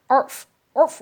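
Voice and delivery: high, loud barking imitation; dog bark.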